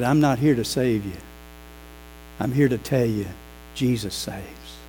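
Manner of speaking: low, soft, slowing on Jesus saves; solemn quiet reply. Retold or imitated. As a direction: let the last words sink quietly. Pastor's solemn answer retold.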